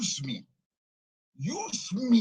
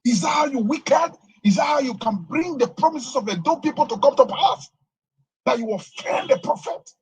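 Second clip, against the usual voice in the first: angry scolding; 2 semitones higher, 5 dB louder than usual. Real, not acted. Prophet caller scolding the governor on live radio, angry. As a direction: tear into the governor for ignoring you.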